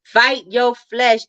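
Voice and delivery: slow mock-preacher "Fight your flesh"; drawn-out rallying read; lightly hammed-up exhortation; reading a comment with gusto. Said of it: "Jazz said".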